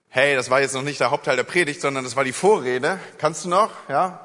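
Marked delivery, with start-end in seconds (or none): none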